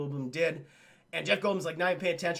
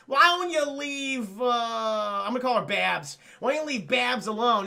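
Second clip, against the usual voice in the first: acted challenge; 4 semitones higher, 4 dB louder than usual. Man telling a rival to leave Babs alone, mock challenge. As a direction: stretch it out, loud and higher.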